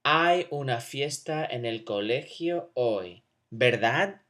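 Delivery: rising tag "¿verdad?" after a falling statement; tag question. Shown as a demonstration. Teacher to class, showing a tag question with rising tag. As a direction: fall on "hoy", then lift "¿verdad?". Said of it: "Check this out".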